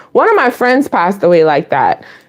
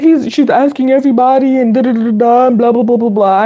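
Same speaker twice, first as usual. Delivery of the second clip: mocking him; faster than usual. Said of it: "He was like".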